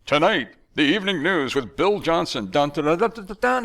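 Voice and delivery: a touch of bombastic announcer rising into a high fanfare; mock TV news announcer. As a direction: play a pompous news opener and hum the jingle. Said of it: "pretentious, bombastic, deep announcers with deep voices".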